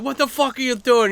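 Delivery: high, loud retold outburst; mock angry challenge. Angry guy starting an argument, high mock outrage. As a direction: act out an irate guy confronting you.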